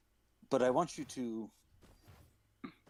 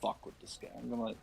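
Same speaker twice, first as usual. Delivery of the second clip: mock God voice; 4 semitones higher than usual. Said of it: "He's like".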